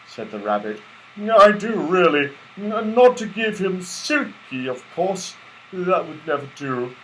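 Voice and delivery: high, eager little rabbit voice; chirpy helpful rabbit; toy rabbit. Acted. Rabbit advising the friends, high and eager.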